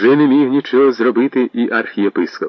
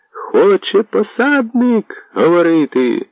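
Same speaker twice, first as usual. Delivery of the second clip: calling out; 11 semitones higher, slower than usual. Acted. Herald announces to the crowd.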